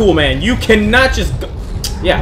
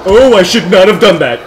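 laughing shout; 6 dB louder than usual. Real, not acted. Player panics as zombie grows.

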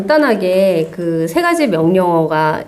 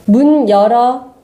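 loud, slow, clear command; talking to voice assistant; 3 semitones higher, 4 dB louder, slower than usual. Shown as a demonstration. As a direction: spell out the command slowly for the device. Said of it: "큰 목소리로 해주세요". (기기에 천천히 또박또박 명령하는 목소리)

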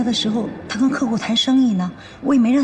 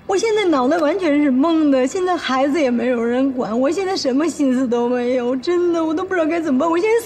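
near tears; 4 semitones higher than usual. Acted. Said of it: "别哭，别哭".

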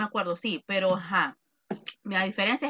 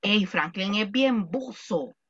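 slang example; slower than usual. Shown as a demonstration. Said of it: "Ajá".

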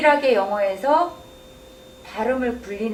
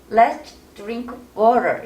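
exaggerated slow read; much slower than usual. Shown as a demonstration. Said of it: "과장되게 극단적으로".

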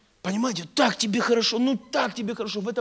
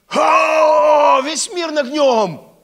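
huge drawn-out "O", then booming boast; loud, high, overblown triumph; euphoric battle cry; 7 semitones higher, 11 dB louder, much slower than usual. Acted. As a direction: shout it like you could conquer the world. Acts out post-conference euphoria.

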